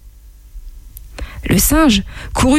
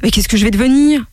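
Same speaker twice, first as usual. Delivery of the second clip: alarmed; 4 semitones higher than usual. Acted. Monkey alarmed on camel's back.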